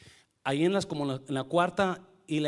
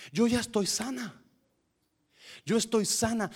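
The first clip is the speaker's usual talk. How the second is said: higher, lifted proclamation of being healed; joyful declaration; 7 semitones higher than usual. Real, not acted. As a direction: announce the healing with joy. Joyful testimony of healing.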